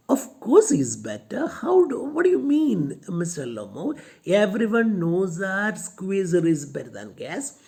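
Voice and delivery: shrill insistence on her dog; heated Natalia. Retold or imitated.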